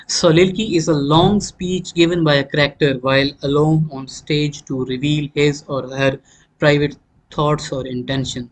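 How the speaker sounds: very slow, spaced dictation of a definition. Shown as a demonstration. Teacher dictating the soliloquy definition, slow and spaced. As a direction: give it word by word for note-taking.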